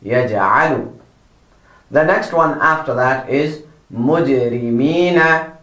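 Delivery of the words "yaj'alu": "Yaj'alu" with ayn from the centre of the throat; careful model "Yaj'alu"; proper pronunciation. Shown as a demonstration. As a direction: say "Yaj'alu" low, making the throat A clear. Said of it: "Make sure that you pronounce it properly".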